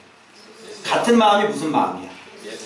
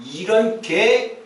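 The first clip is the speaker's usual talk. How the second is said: mock curse; much slower than usual. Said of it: "이러면서".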